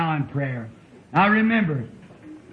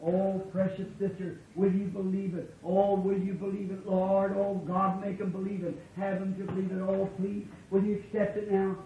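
mock begging prayer; 3 semitones higher, 10 dB quieter than usual. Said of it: "took people and say".

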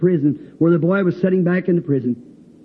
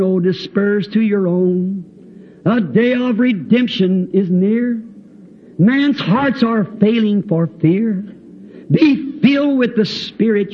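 put-on old hymn recitation. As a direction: recite the hymn solemnly to a congregation. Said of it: "As the old song says".

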